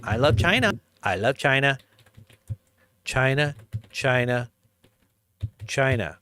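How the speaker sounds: hammed-up Trump impression; imitating Trump. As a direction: ham up his China chant. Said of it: "All he said was".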